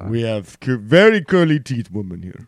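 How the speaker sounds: light mock Russian accent; lightly voiced Russian accent. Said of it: "I hear all the women".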